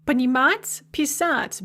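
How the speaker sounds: "понимать" and "писать" each punched on the last syllable; stressed final syllable. Shown as a demonstration. Teacher comparing infinitives, stress on the "ать" of "понимать" and "писать". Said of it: "both have this stressed at ending".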